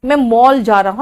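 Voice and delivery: मॉल with over-rounded o, like "mole"; Haryanvi pronunciation. Retold or imitated. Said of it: "वो और गोल कर देंगे मुंह".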